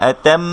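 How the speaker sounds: আতাম with the final ম held, nasal ghunna; hold the mim. Shown as a demonstration. Teacher shows students the mim tashdid ghunna, held nasal. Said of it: "একটু ধরতে হবে".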